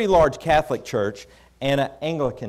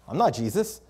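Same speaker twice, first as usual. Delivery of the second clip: slightly raised, questioning lift at the end; taken-aback denial; 3 semitones higher than usual. Retold or imitated. Preacher answering a man who sees Jesus in him, taken aback. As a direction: deny it in puzzled surprise. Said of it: "I just said it like that".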